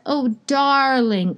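lightly put-on South African accent. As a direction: imitate a soothing South African midwife, drawn out. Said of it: "'cause she was South African".

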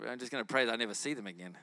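low, fast, laughing aside; rueful chuckling mutter; laughing to self. Retold or imitated. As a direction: laugh it off under your breath. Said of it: "And I'm thinking".

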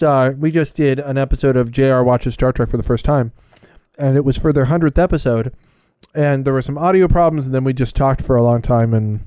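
chewing while talking. Real, not acted. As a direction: mouth full of sushi. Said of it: "pardon me eating sushi while I talk".

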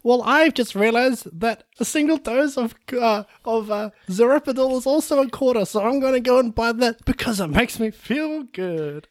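put-on a nasty little kid robbing her with glee; cheeky orphan boy. Plays the orphan mugger.

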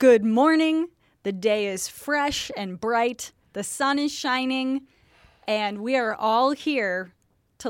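chirpy broadcaster welcome; cheery announcer. Acted. Mock cheery show opening.

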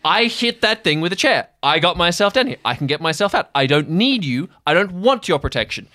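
loud, high, frustrated rant; angry outburst. Acted. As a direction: tear into him for overprotecting. Sky's angry outburst at Jeremy.

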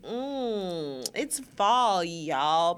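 lightly put-on glamorous indulgence, stretched at the end; bougie body-roll voice. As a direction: savour it as if doing a body roll. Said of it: "you can hear it in my voice".

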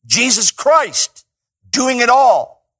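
climbing high and loud, slow and big; rising preacher's shout. Real, not acted. Preacher lifting the congregation, in a rising shout. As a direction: build it up to a ringing peak.

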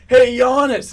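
loud, high call to a player; heckler's shout. Acted. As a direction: yell his name like a heckling fan. Acting out the heckler calling out.

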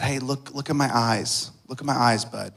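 soft, fatherly coaxing; gentle coaxing. Retold or imitated. Father to his withdrawn little boy, gently coaxing. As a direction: quietly coax a child to look up.

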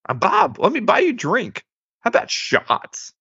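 jumpy pitch, offhand Walken-style pickup line; Christopher Walken impression. Bob hitting on Emma, in a Walken imitation. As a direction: channel Walken offering a drink. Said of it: "best Christopher Walken impression".

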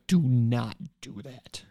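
slow, measured telling-off; imitated scolding. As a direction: scold slowly, word by word, as a retold quote. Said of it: "she scolded us".

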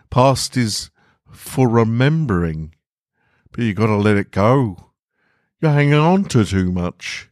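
Walter urging. Acted. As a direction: push him gently to let go.

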